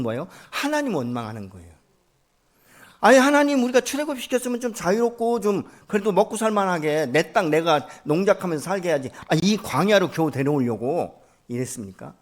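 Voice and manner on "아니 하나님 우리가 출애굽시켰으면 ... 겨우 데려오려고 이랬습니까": loud, higher, resentful outcry to God; mock the grumbling people, loud and high; complaining cry. Israelites in the wilderness loudly complaining to God, resentful and high. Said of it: "이러면서 막 원망을 하는 거예요".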